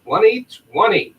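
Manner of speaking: upbeat convention promo read, hyping every line; promo announcement read. Acted. Podcast host reading the PowerCon announcement to fans, promo voice. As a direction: sell the convention like a radio ad.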